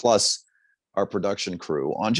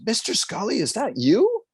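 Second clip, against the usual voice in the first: higher, louder panicked yell; 13 semitones higher than usual. Retold or imitated. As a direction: blurt it out in sudden panic. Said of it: "I yelled really loud".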